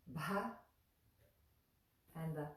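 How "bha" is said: "bha" set apart as one short syllable; pronunciation demo. Shown as a demonstration. Teacher isolating a syllable to remember, "bha" sounded out. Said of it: "things we want to remember".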